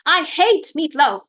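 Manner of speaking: put-on child griping about meatloaf at the table; yelling in disgust. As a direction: read it like a kid who hates dinner. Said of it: "Matt yelled".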